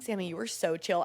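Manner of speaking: low, soft imitation of a friend; chill compliment. Friend praises comedian's relaxed set, mellow.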